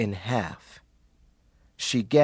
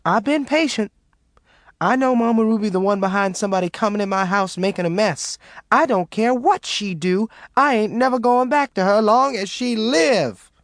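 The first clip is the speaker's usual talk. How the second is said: spat; 8 semitones higher than usual. A narrator's reading. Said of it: "Maureen spat".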